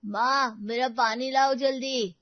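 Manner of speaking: slow, loud bossy order; boy demanding water, drawn out. Acted. Spoiled son orders his mother for water, loud and slow.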